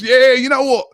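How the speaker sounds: high, loud, mock-cheerful fan voice; hammed-up Spurs fan. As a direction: ham up a gullible rival fan, high and loud. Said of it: "the guy goes".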